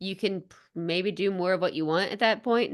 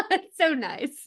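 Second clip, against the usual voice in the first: high, slow words through real laughter; cracking up while saying it; laughing; 8 semitones higher, much slower than usual. Real, not acted. Cohost laughing at the impression, real laughter.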